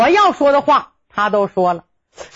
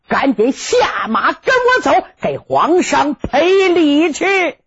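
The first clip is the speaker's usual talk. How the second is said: a grandfather's public, mostly mild scolding yell; loud scolding; 2 semitones lower than usual. Acted. Grandfather scolds grandson for the emperor's ears, mock stern yell. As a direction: bellow it so the city wall can hear, half for show. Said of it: "他喊得清清楚楚".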